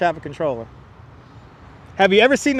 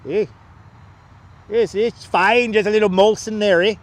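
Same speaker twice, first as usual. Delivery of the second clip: put-on Canadian accent. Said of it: "I did ace Canadian accent".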